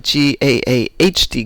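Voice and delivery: Boston pronunciation of God. Shown as a demonstration. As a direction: say "G A A H D" with a long open Boston vowel. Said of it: "If it's from Boston".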